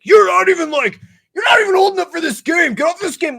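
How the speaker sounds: put-on high shrill kid voice; squeaky angry kid yelling; mocking kid gamer. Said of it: "somebody would be like".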